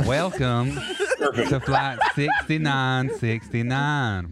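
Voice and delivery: slow, laughing pilot announcement; flamboyant pilot voice. Pretend. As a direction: camp it up as the captain. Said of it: "the voice said you said you were gonna use".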